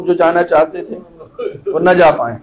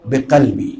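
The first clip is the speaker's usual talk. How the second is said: quiet devotion; 3 semitones lower than usual. Shown as a demonstration. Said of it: "ایسے بولو".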